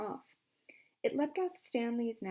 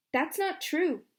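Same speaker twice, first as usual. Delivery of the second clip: protest; 7 semitones higher, 7 dB louder, slower than usual. A narrator's reading. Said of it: "said Stanley".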